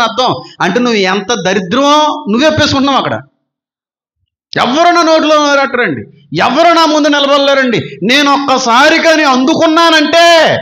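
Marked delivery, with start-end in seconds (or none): 4.6-10.6 mimicking a loud bragger, a bit louder; mock loud boasting. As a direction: puff up and brag at the crowd. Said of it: "అన్నట్టుగా మాట్లాడుతున్నారు అంత గట్టిగా". (వెక్కిరిస్తూ గట్టిగా గొప్పలు చెప్పడం)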